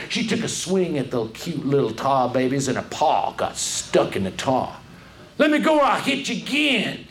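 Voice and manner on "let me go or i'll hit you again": shouted. Acted. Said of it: "shouted Brer Rabbit".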